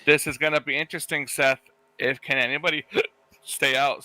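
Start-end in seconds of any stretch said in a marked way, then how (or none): 2.0-4.0 hiccuping mid-sentence; hiccups. Real, not acted. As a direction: catch a hiccup while talking. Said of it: "Sorry, I, I had the hiccups there".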